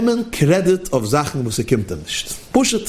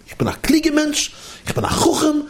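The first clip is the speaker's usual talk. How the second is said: prahlender Einstein; 11 semitones higher than usual. Acted. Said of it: "rief zusammen Einstein alle seine Arbeiter".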